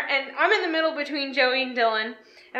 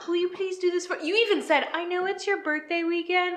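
mock pleading; 3 semitones higher, 5 dB quieter than usual. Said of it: "you used the".

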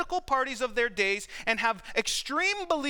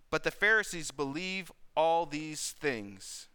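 measured Bible reading voice; scripture reading; 3 semitones lower than usual. Acted. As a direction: read the passage steadily, like a lesson from the pulpit. Reads scripture passage aloud.

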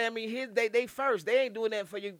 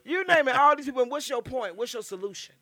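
high, loud exasperated demand; indignant raised voice; loud exclamation; 7 semitones higher, 6 dB louder than usual. Real, not acted. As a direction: call them out loudly. Opening rant at people.

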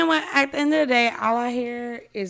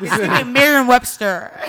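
teasing through a laugh; laughing tease; 6 dB louder, slower than usual. Real, not acted. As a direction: poke fun while laughing.

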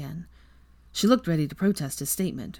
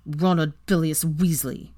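ground out; 3 dB louder than usual. Acted. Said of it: "ground out through clenched teeth".

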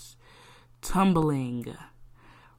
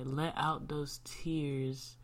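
slow, softer whisper; soft whispered comfort; 5 dB quieter, much slower than usual. Real, not acted. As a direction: breathe the words gently. Gentle encouragement.

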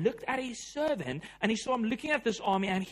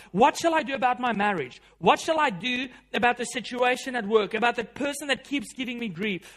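pleading cries of desperation; 3 semitones higher, 4 dB louder than usual. Retold or imitated. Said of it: "cries of desperation like that".

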